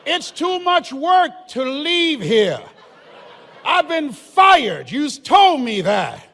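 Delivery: slow, loud, laughing argument; slow mock-indignant shouting; laughing loud protest. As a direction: play the stubborn barricaded DJ to the police. Mock-reasoning with police, laughing.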